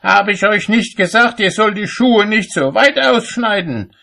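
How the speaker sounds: very high, loud rebuke; yelling at someone. A narrator's reading. Cobbler yells at apprentice handing him a shoe, high and furious. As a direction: shout it accusingly, pitched right up. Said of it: "schrie er ihn an".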